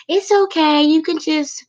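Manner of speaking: high-pitched mock reassurance; over-forgiving reassurance. Too-nice person letting someone off the hook, high-pitched reassurance. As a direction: lift it way up, acting out easy forgiveness.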